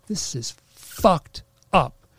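loud, slow, furious complaint; retold rage from the session, loud and slow; angry outburst. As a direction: let the anger pour out loud and slow. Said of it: "I am, like, so angry".

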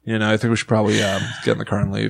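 casual, deadpan mock urgency; no fear. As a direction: suggest fleeing as if nothing is wrong. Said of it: "no fear in your voice".

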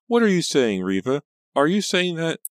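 high, loud alarmed questioning; shrill. A narrator's reading. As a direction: press her in a shrill, upset voice. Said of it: "Pam cried shrilly".

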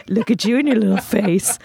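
cooing pet voice; baby talk to dog. Acted. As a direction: gush over a cute dog.

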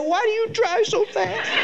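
hammed-up angry officer breaking into laughter; mock angry cop. Imagined angry cop yelling at a speeder, hammed-up. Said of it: "He's not saying".

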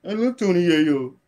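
lightly mocking, slowed-down imitation; mocking echo. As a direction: drag the words out to mimic him. Mockingly echoes opponent's words.

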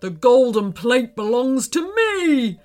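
menacing eagle character voice; put-on screechy eagle, not a full scream. A narrator's reading. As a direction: threaten them as a villainous eagle. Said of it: "screamed the eagle".

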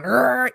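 short growling grunt; effortful grunt. Shown as a demonstration. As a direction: grunt as if swinging hard. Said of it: "grunting and going".

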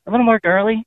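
put-on girly voice. Shown as a demonstration. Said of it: "Okay, I'll try".

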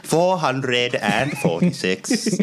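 slow announcement. Real, not acted. Announces the list number.

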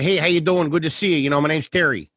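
put-on lightly done upstate Pennsylvania accent, friendly greeting; a hint of a Scranton-area dad accent, leaning Midwest; Terry's upstate Pennsylvania accent. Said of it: "he would sound like that".

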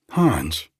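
calling out. Acted. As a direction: summon the servant with a loud call. Josie calling the servant.

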